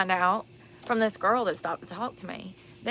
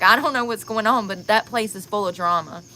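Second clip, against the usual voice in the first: excited told-you-so; 3 semitones higher, 8 dB louder than usual. Retold or imitated. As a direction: burst out like she saw it coming. Retelling friend's excited remarks.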